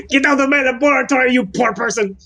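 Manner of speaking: put-on high, bossy boy-genius voice; Dexter impression. Answering the joke about his Armando with a high cartoon boy-genius voice. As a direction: shoo them out like a cartoon kid scientist. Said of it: "sound like Dexter from Dexter's Lab".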